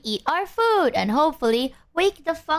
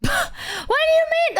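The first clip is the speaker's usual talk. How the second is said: laughing; slower than usual. Real, not acted. Surprised friend eats same way.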